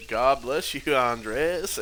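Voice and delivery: slow, drawn-out surfer dude; lightly voiced surfer, words stretched out. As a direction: say it like a laid-back surfer, slowly. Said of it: "And that was it".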